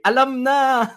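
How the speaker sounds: high, loud line broken by laughter; laughing quote. Retold or imitated. Storyteller laughs while voicing the crowd's reply. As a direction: laugh through the crowd's answer.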